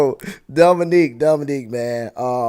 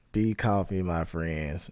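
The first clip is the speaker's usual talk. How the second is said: soft, lower mock sage line; quiet imitation of a guru; hushed mock wisdom; 6 semitones lower, 7 dB quieter, slower than usual. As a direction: whisper it like a wise master. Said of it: "What did A B say".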